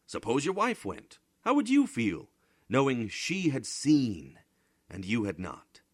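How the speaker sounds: high, loud pointed challenge; challenging question. A narrator's reading. Bodini challenging Bramante about his wife seeing space, high and loud. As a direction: pin him with it, voice up high.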